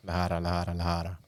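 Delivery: quick, low-key triple repeat; rapid repetition. Shown as a demonstration. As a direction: run the word three times in a row, fast. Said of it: "Say that three times fast".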